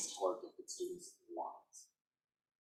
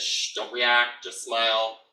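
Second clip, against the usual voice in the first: calm dad hush; 8 dB louder, slower than usual. Retold or imitated. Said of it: "And he says".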